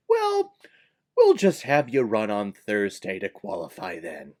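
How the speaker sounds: mock officials shrugging the problem away; put-on breezy concession; mock accommodating official. Voices officials giving in easily.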